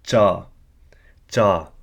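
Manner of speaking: "cha" with the pitch lifting at the end; rising tone cha. Shown as a demonstration. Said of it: "show the increase in tone".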